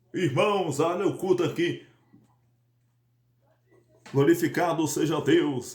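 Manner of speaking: put-on overly deep, very low voice. Showing how a pastor who speaks too deep sounds: imitating a pastor's overly deep voice. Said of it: "um pastor ali que fala grosso, até demais".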